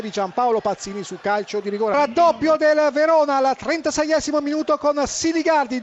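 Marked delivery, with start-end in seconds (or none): 1.9-5.8 excited goal call. Real, not acted. Second goal called out.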